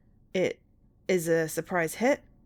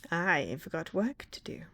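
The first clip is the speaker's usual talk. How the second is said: whisper; 4 dB quieter, slower than usual. Pretend. Whispered reprise of villain line.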